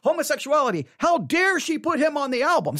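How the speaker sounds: high-pitched indignant imitation; mock upset. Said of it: "They're very upset".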